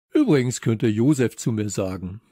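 calling out with mouth full. Acted. Herr Nullinger offering his first name while eating, mouth full. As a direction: talk loudly round a mouthful. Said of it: "rief Herr Nullinger mit vollem Mund".

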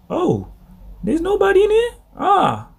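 squeaky high mock voice of sin creeping in; sneaky intruder. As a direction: play the evil sneaking into an empty heart. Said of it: "they go like".

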